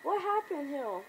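high-pitched cries for help; mock flipping out. Comic fan voicing Rick finding a zombie, mock panicked cries. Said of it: "He's flipping out".

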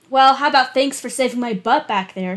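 lightly mock the ungrateful man; sarcastic. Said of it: "she said sarcastically".

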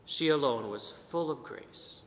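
"full" leaned on, whole phrase slowed; stress on full. Shown as a demonstration. Priest to his congregation, stressing "full" slowly. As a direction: press the word "full" and take it slowly. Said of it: "Emphasis on the word full".

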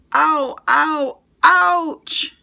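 high yelps of sudden pain; pained scream. A narrator's reading. Liz stepping on a sea urchin, high pained yelps. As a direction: cry out as a spine pricks your foot. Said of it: "she screamed".

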